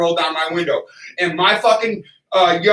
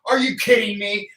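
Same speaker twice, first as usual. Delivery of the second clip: retold outraged rant; 5 semitones higher than usual. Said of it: "I was like".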